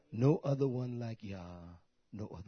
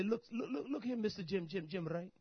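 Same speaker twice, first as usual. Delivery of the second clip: laughing; 7 semitones higher, 6 dB quieter than usual. Acted. Acted tenant to landlord laughing.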